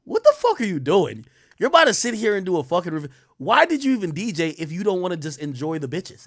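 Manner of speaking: incredulous. Retold or imitated. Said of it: "just kinda look at me like".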